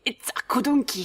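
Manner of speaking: light foreign accent on "It's a kodunki", "kodunki" said /kudunki/; a lightly put-on accent for the engineer. Shown as a demonstration. Redoing the engineer's line in a light accent. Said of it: "I should do the accent".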